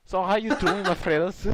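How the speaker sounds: attempted Scottish accent. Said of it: "I'm trying to do the Scottish accent".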